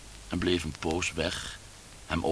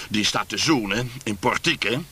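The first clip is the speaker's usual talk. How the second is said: wry, higher and louder father; 5 semitones higher, 7 dB louder than usual. A narrator's reading. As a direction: sour sarcastic remark. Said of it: "constateerde hij wrang". (wrang, hoger en luider)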